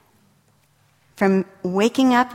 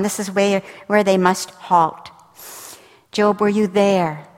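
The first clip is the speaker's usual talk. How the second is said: commanding God voice. Acted. Voices God questioning Job.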